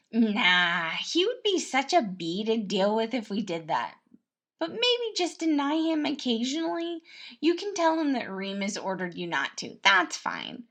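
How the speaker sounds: loud mischievous prince voice; Remus, gleeful schemer. Acted. Prince plotting against Roman, loud and gleeful. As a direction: relish annoying his brother.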